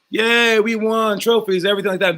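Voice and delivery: a team cheering after the win; mock cheer. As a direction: celebrate the win like a kid. Pretend victory celebration.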